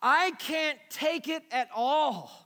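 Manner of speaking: slow, heavy lament; slow anguished reading. Retold or imitated. Pastor voicing King David's psalm, slow and heavy. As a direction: carry the weight of guilt. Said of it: "He said".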